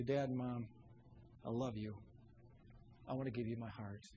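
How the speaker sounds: softly, low and tender. Acted. Child telling mom and dad of love, tenderly. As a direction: say it low, soft and heartfelt. Models words for child to parents.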